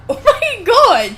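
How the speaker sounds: shrieking laugh, high and loud; laughing shock. Real, not acted. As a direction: burst out laughing in disbelief. Reacting to knife story.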